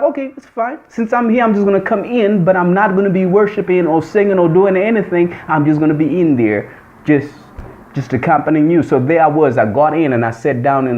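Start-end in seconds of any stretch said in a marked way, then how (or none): 0.0-8.8 higher, reluctant giving in; a high, half-reluctant okay at the church door; grudging. Retold or imitated. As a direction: concede but keep your pride.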